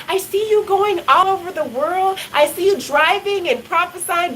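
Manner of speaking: high, carried prophesying voice; prophetic declaration. Retold or imitated. Prophesying to a stranger by phone, high declaring. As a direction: proclaim it like a vision.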